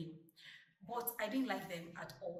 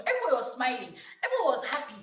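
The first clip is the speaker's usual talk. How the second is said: laughing; 4 semitones higher, 9 dB louder than usual. Real, not acted. Laughing about graduation photo.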